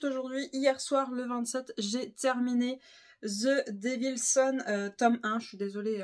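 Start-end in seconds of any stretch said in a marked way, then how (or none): 3.2-4.6 titre dit lentement avec un accent anglais approximatif; « The Devil's Son » avec un accent anglais maladroit et lent; mauvais accent anglais. Real, not acted. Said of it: "mon accent anglais est pourri". (accent anglais hésitant et pourri)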